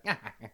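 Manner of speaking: short, acted skeleton laugh; brief put-on laugh; character's cackle. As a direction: throw back a brief mock cackle. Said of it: "he, he, he laughs".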